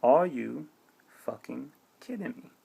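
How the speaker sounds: starts aloud, then drops to a breathy whisper on fucking kidding me; whispered disbelief. Shown as a demonstration. Repeating his outrage to viewers, now whispered. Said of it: "But I'll say it once again".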